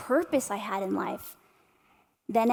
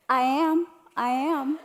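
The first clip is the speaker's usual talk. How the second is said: high, louder shocked "I am" with a laugh; 4 semitones higher, 4 dB louder, slower than usual. Retold or imitated. Airport stranger shocked that she was recognised, laughing. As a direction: blurt it out, caught off guard. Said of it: "Shocked, she's like".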